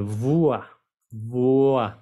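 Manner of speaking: "Voix" as an isolated, deliberate "vwa"; first syllable demo. Shown as a demonstration. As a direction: sound out "Voix" like Spanish "vua". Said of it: "como si fuera español".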